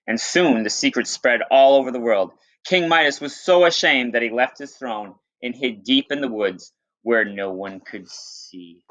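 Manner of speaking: lightly dramatic read-aloud voice; storyteller reading to students; story narration. Acted. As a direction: tell the myth to the class. Teacher reads myth aloud.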